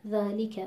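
ذَلِکَ with the lam's kasra fully voiced; ذَلِکَ with each letter given its due; correct pronunciation. Shown as a demonstration. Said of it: "ما درست تلفظ کردیم".

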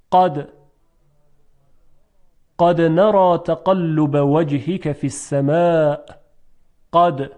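قد with a firm stopped ق, alone and in the verse; hard qaf. Shown as a demonstration. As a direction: recite with a sharply released ق in قد. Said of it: "با قاف". (تلفظ قد با قاف شدید در آیه)

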